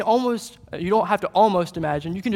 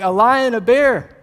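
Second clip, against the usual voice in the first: louder, playful acted storytelling; emphatic boast; 3 semitones higher, 6 dB louder than usual. David telling Saul about the beasts he fought, emphatic. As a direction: punch out each beast with gusto.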